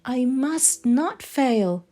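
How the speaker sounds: lilting storybook read-aloud; story narration. A narrator's reading. Reading The Snail and the Whale aloud to children, lilting storybook voice. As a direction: tell it like a bedtime picture book. Reads a picture book aloud.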